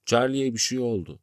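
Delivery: high, loud, alarmed report; urgent alarm. A narrator's reading. Sitare phones that something happened to Charlie, urgent alarm. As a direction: break bad news urgently.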